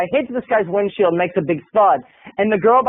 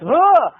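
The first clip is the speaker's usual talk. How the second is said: high "ugh" of surprise; imitated grunt of impact; 6 semitones higher than usual. Man elbowed out of the blue, mock startled grunt. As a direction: react to an elbow in the ribs. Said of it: "And Tom goes".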